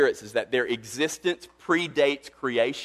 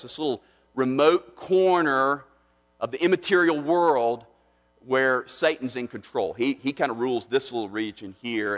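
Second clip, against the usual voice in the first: mock naive view; 4 dB louder than usual. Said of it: "you might think".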